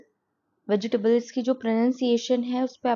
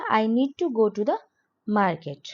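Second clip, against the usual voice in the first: slow, careful teacher's model reading; slow classroom demo; slow model sentence; much slower than usual. Shown as a demonstration. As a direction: say each word slowly for learners. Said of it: "तो आप इसे बोलेंगे English में".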